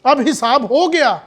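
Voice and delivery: mourner fussing over the grave, rising to a loud call; mocking mourner in Punjabi. Mocking the mourner at his father's burial, loud and fussy. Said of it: "تو میں کہوں گا".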